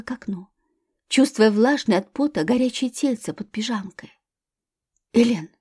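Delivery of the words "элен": ordinary delivery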